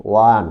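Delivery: ওয়ান starting with a w glide, like wa; wa sound for one. Shown as a demonstration. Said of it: "ও এর উচ্চারণ যখন ওয়া এর মতো হবে". (ওয়া শব্দে ওয়ান)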